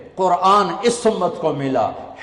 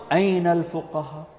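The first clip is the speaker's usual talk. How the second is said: softer, measured summons; proclamation; 6 dB quieter than usual. Acted. Announcer calls each group on Judgment Day, softened proclamation. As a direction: call each group quietly, with a pause between. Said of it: "تو اعلان ہوگا".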